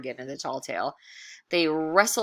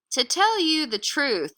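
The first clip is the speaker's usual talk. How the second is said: drifter voice; 9 semitones higher, 5 dB louder than usual. Acted. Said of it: "said Chuck".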